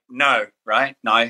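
"No" said the Australian way; Aussie "No". Shown as a demonstration. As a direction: show how Aussies say "No". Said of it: "you know how to say".

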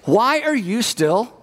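exasperated complaint. Retold or imitated. Acting an exasperated apologizer.

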